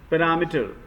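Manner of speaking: "पैरामीटर" as "puh-RA-mi-ter"; correct pronunciation. Shown as a demonstration. Teacher modelling the word for students, correct pronunciation. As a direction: stress RA in "पैरामीटर", short "mi". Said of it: "meter ना बोल के मीटर बोलना है".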